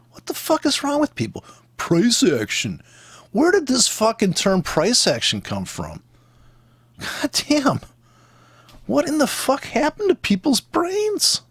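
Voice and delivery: real high-pitched disbelief, drawn-out words; exasperated rant. Real, not acted. Trader fed up with people's price action talk, exasperated. Ranting at other traders' foolishness.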